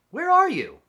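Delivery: very high, loud squeaky calf calling; baby rhino voice. Acted. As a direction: call out like a lost baby rhino. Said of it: "She made funny sounds".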